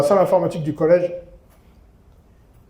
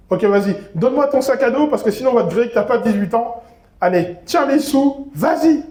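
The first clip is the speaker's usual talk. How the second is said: higher, urging voice of a classmate; pushy classmate voice; 5 semitones higher than usual. Retold or imitated. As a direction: hurry him along like a pushy schoolmate. Camarade voiced in the story.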